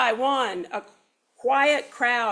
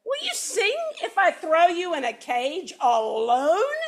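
threatening; 6 semitones higher than usual. Acted. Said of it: "threatened Don Pepe".

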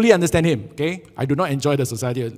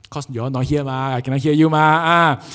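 mock loud retort; 5 dB louder than usual. Acts retort, cannot hear you.

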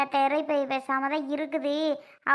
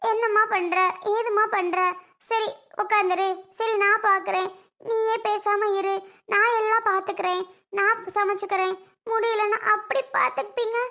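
imitating his kind old self; 5 semitones higher than usual. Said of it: "முன்னாடியெல்லாம் நீங்க இப்படி".

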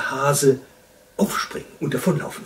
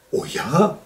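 louder, higher cheery yes; raised calling voice; 5 semitones higher, 5 dB louder than usual. A narrator's reading. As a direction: call back a ready yes. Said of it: "rief der Wunschhase".

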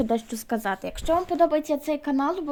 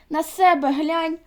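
loud, higher, slow squealed comeback; squealing retort; 4 semitones higher, 6 dB louder, slower than usual. A narrator's reading. Anna-Liza squeals back at Flo, loud and slow. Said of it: "вирискнула Анна-Ліза".

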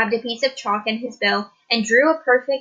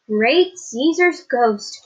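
slow, drawn-out exclamation of amazement; astonished cry; 2 semitones higher, 4 dB louder, much slower than usual. Acted. Teacher amazed at the swan's wings, slow astonished cry. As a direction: stretch it out in wonder. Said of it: "cried the teacher".

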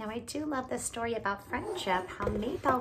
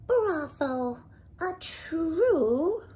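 higher, louder admiring exclamation; excited praise for a finished hat; delighted cry; 6 semitones higher, 10 dB louder, much slower than usual. Acted. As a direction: cheer her masterpiece. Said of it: "he cried".

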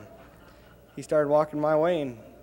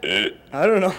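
burp-like grunt; 4 semitones higher, 9 dB louder, much slower than usual. Shown as a demonstration. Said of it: "No, that was a burp".

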